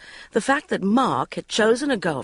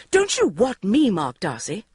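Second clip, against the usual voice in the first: muttered; 3 semitones higher than usual. A narrator's reading. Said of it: "I muttered".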